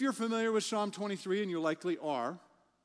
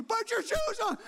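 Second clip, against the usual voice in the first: laughing exasperation; 5 dB louder than usual. Retold or imitated. Dad's exasperated cry.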